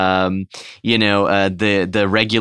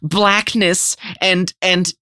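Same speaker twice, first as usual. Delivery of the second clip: high, slow trance-like voice; eerie psychic kid voice; 12 semitones higher, slower than usual. Acted. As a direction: speak as if channeling the monster. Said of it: "it'll just be something like".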